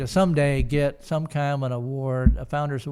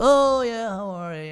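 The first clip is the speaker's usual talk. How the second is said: gushing mock greeting; imitating delighted mom; 7 semitones higher, 3 dB louder than usual. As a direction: act out a mother's sudden recognition. Voices Mom's delighted greeting.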